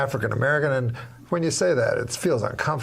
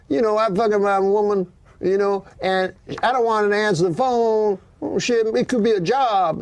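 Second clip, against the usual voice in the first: put-on African American accent; 6 semitones higher than usual. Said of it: "He goes".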